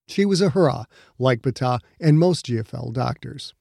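measured, dramatic storytelling voice; audiobook narration. Acted.

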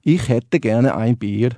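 very slow Swiss German accent. Shown as a demonstration. For the radio host, a very slow Swiss German accent.

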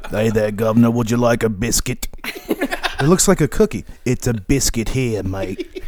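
mock British accent drifting Aussie; badly faked British-Australian accent; British slipping into Australian. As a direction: start as a Cockney, slow into Australian. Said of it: "did you become Australian all of a sudden?".

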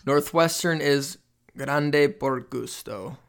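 slow Spanish accent on grande por gusto. Shown as a demonstration. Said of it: "my Hispanic accent is terrible".

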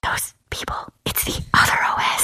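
soft secretive whisper. Real, not acted. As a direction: hush it like a conspiracy. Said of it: "Why are we whispering?".

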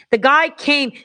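normal talking voice

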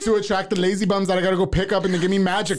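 laughing while telling it. Real, not acted. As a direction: giggle through the line. Laugh heard, raised pitch.

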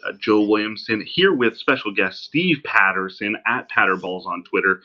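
distant laptop mic sound; tinny, far-off recording; from another room. Real, not acted. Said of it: "me sounding like I'm talking from the other room".

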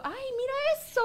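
high-pitched gasp of wonder; feigned amazement. Retold or imitated. Mother distracting toddler with anything at hand, feigned amazement. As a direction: suddenly lift pitch to grab attention. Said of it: "trato como eso, de, de".

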